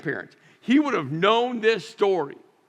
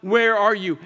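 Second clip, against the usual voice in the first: loud pleading call; crying out to God; 2 semitones higher, 5 dB louder than usual. Retold or imitated. Abandoned believer screaming to God, loud plea. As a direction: raise the voice to God. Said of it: "we scream to God".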